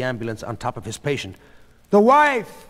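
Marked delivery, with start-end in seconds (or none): 1.9-2.7 high, loud exclamation; shouted. A narrator's reading. Sheila telling the doctor who Goldie is, shouting. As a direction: shout the answer urgently. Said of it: "Sheila shouted".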